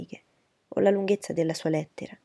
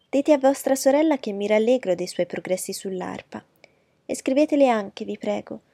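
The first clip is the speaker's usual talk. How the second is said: higher, louder, gushing lady's voice; fawning society lady; 3 semitones higher, 6 dB louder than usual. Acted. Miss Bingley fawning over Darcy's letter, higher and gushing. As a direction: flatter him from a higher, eager pitch.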